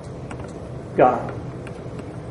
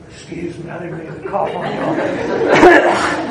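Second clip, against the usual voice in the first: laughing apology; 2 semitones lower than usual. Real, not acted. Apologizing after a coughing fit.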